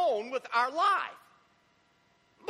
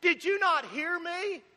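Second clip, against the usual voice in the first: higher, sharp demand from an annoyed parent; exasperated parent; 6 semitones higher than usual. Retold or imitated. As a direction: scold the child who didn't listen. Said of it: "and we go".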